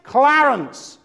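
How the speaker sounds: mild mock yell, high at first and easing down; imitated yelled farewell. Minister finishes his litany to the corpse, yelling out. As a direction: call out a farewell like a fervent preacher. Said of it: "he yells out".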